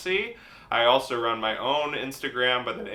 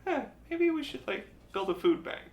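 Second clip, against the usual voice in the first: mocking voice; 8 semitones higher, 5 dB quieter, faster than usual. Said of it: "of actually just going like".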